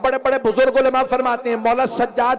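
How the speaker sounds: high, loud wailing sermon delivery; impassioned mourning sermon. Acted. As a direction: build the lament up high and loud. Second rising climax of sermon. (ऊँची आवाज़ में मातमी बयान)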